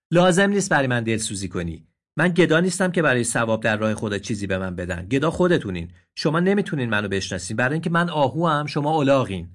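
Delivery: offended deer. Acted. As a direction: refuse the charity proudly. Deer answers angrily. (آهوی رنجیده و تند)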